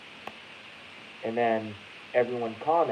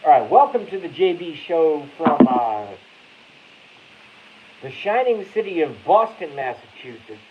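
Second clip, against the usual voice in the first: lightly voiced talk-show host intro; imitating Blackie; 3 semitones higher, 6 dB louder than usual. Host greets his guest's viewers in a mock-Blackie welcome. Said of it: "Oh, do the Blackie".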